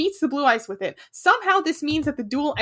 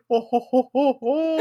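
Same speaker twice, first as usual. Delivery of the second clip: kind gentle laugh. Retold or imitated. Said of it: "friendly, warm chuckle".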